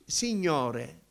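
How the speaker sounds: "Signore" drawn out and left alone; slow, tentative one-word prayer; halting prayer attempt. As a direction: begin to pray and get stuck. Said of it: "e mi fermavo".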